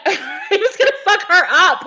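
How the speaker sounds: high-pitched, amused telling with laughter; laughing. Real, not acted. Telling viewers how he chased her, laughing. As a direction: laugh your way through it. Laughs while retelling dream fight.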